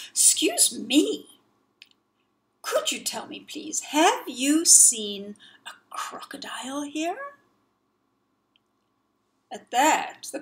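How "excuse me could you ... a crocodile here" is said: timid whisper. Acted. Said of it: "who said".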